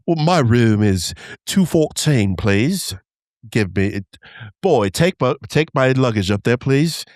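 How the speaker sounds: lightly put-on posh-guest accent; slightly affected accent, ordering the bellboy about. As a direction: play the grand hotel guest in an affected accent. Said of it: "adding an accent to my voice".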